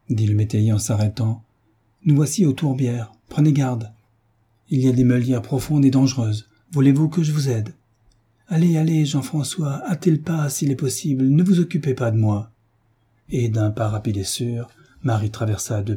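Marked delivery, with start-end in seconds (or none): 2.1-12.5 a lightly voiced farmhand, higher and pressing; urgent farmer guide. Farmer warning the young mother in the marsh, urgent. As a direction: hurry her along as a worried guide.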